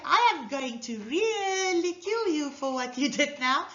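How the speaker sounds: mock threat, lilting and unconvincing; tone contradicting the threat. Shown as a demonstration. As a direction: stretch REALLY playfully, undercutting the threat. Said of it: "not congruent with each other".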